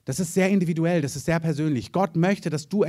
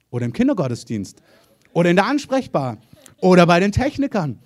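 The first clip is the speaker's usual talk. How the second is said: each item louder, up to a ringing call; rising preaching emphasis; building preacher call; 6 dB louder than usual. Real, not acted. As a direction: build the list to a shout from the pulpit. Preacher lists serving teams, building.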